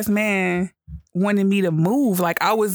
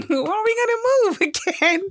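high, mocking whine of a fed-up rider; high-pitched mock complaint; mock whiny passenger; 14 semitones higher than usual. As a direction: squeak it out like an impatient passenger on a stalled bus. Mocking a stalled bus passenger.

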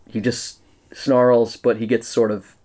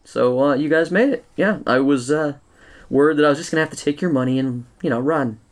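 gravelly sly hobgoblin; 3 semitones higher than usual. Acted. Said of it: "the hobgoblin says".

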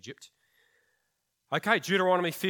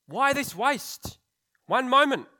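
much higher and louder, dragged-out indignant cry; indignant outburst; 11 semitones higher, 9 dB louder, slower than usual. Acted. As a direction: blurt it out, scandalised.

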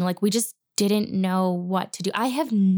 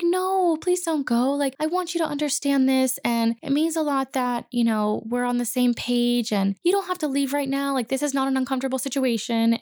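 calm teacher; 5 semitones higher than usual. Retold or imitated. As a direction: gently coax her to stay. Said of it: "he so calmly was just like".

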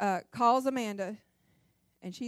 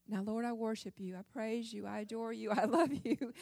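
softer, hushed devout praying; mock reverent prayer; 6 dB quieter than usual. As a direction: put on proper prayer manners. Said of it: "we know we gotta say".

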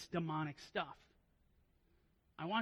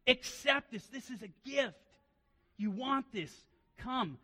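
higher, louder luring voice of the tempter; Satan tempting; 6 semitones higher, 5 dB louder than usual. Acted. Satan peddling the accursed gift to Achan, tempting. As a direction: coax Achan toward the forbidden gift. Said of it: "what Satan peddled to Achan".

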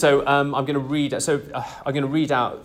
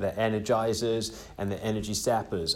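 put-on lightly slipping into an American accent; accidental American accent; 4 dB quieter than usual. Host quoting his New Zealand rugby coach, in a stray American accent. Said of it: "I'm saying American accent".

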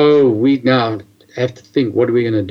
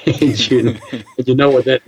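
laughing. Real, not acted. Laughs recalling wife's evasion.

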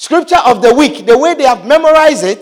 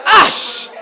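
mock disgusted scoff; 5 semitones higher than usual. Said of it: "What would you say?".

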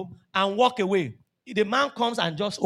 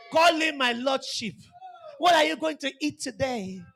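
mock sweet talk; 4 semitones higher than usual. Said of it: "use that your serenading voice".

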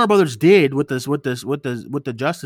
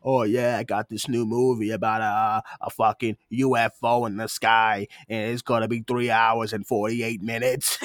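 director impression; 4 semitones lower, 4 dB quieter than usual. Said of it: "my last little change of voice".

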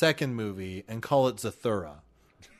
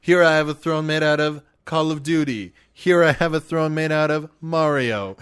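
grand host voice; 4 semitones higher, 5 dB louder than usual. Pretend. Mock royal tour of thrones.

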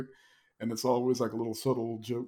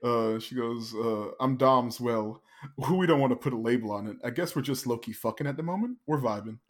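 haughty mock Gia. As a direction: look down your nose at her. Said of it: "Gia's like".

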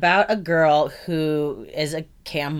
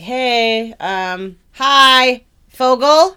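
mock eager greeting; 6 semitones higher, 8 dB louder, much slower than usual. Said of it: "a couple people be like".

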